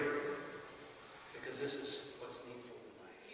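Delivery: hushed Jesus speaking tenderly; soft intimate Jesus. Acted. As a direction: draw them in with a hushed voice. Jesus quoted softly.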